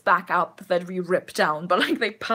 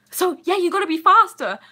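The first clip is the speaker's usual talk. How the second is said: goblin voice; 10 semitones higher, 8 dB louder than usual. Retold or imitated. Goblin reply, retold.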